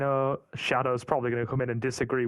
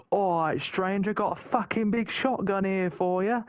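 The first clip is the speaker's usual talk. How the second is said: higher-pitched mock merchant greeting; imitated game merchant; 5 semitones higher than usual. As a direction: play the charismatic mystery merchant, pitched up. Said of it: "rocking that mad charisma".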